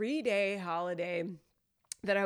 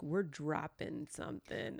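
put-on old person voice; 4 semitones lower, 6 dB quieter, slower than usual. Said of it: "we might have sounded like ninety-year-olds".

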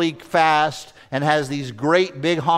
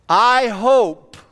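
gloating hope; 5 semitones higher than usual. Retold or imitated. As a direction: savour the thought of him getting caught. Driver hoping Porsche gets caught.

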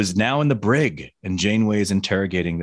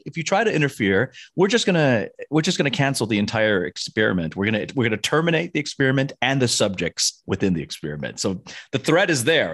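menacing alien; 3 semitones higher than usual. Retold or imitated. Alien threatens the crew.

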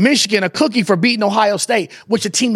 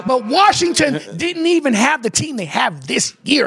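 laughing shout; 3 semitones higher than usual. Real, not acted.

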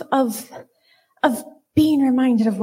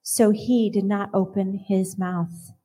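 scripture reading. Acted. Reading Isaiah fifty-three to the congregation, solemn and measured. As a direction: let each line land with reverence.

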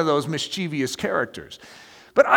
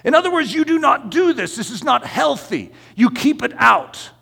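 higher, forceful sermon rebuttal; emphatic preaching; 6 semitones higher than usual. Real, not acted. Preacher rebuts an objection about normal life, emphatic preaching. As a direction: drive each point home to the congregation.

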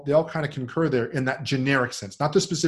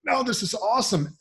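high, gushing fake praise; pitched-up sarcastic raving; mock enthusiasm; 7 semitones higher than usual. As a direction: sell it with exaggerated sarcastic cheer. Friends' sarcastic mock praise retold.

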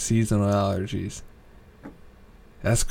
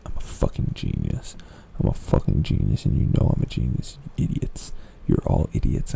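stoner; 12 semitones lower than usual. Acted. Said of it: "I'm kinda high right now".

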